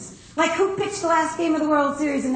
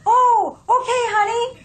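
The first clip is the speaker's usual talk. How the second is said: higher, brighter, perked-up reply; re-energized husband; 6 semitones higher, 4 dB louder than usual. Retold or imitated. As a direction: sound newly cheered, ready to search. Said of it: "He's re-energized now".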